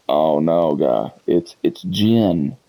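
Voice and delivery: low, let-down correction; slow, weary correcting of a fellow player; facepalm dismay. Retold or imitated. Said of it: "I would just face palm".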